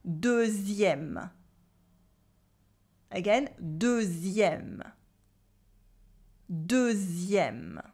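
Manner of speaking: deuxième with a Z sound, slow; model pronunciation. Shown as a demonstration. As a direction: say deuxième for them to copy. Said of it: "Repeat after me".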